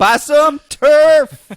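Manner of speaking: slow, high, loud laughing line. Real, not acted. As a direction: blurt it while cracking up. Laughing at own joke.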